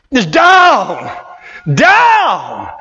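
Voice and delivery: loud, punched DOWN; loud preaching punch; shouted down. Acted. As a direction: hit DOWN hard.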